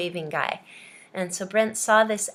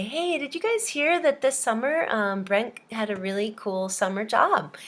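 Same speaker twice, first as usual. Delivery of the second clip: brightly pitched up opener, as if sharing news; mock gossip; 2 semitones higher than usual. Teacher announcing a student's supposed summer job, mock excited. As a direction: share surprising news with the class. Tells class fake gossip.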